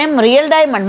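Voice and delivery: "Real diamond" asked with a lifted, amazed tone; a touch of wide-eyed disbelief; surprised question. Retold or imitated. Narrator asks the rich woman about her diamond, surprised.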